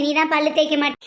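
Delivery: usual speaking voice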